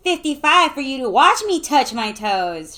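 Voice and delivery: high, loud yelled reply; shout. A narrator's reading. Alyssa shouting back a joke to friends, high yell. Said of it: "shouted Alyssa".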